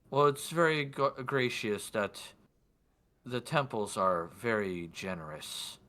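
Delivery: measured, pointed courtesy; lordly man in white. Acted. Lord responding to the woman, lightly acted measured voice. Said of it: "do my best for his voice".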